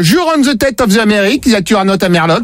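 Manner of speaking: French-accented fake English; badly faked English accent; mock franglais. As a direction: redo it in hammy pidgin English, French accent. Prankster repeats demand in franglais.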